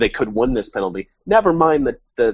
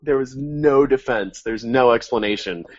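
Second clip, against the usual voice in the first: robot voice; 2 semitones higher than usual. Real, not acted. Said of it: "Did he say it in a robot voice?".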